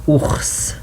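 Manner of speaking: ours with a breathy French r. Shown as a demonstration. Teacher models ours, -. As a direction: say ours as oors with a throaty r. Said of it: "We call it in French".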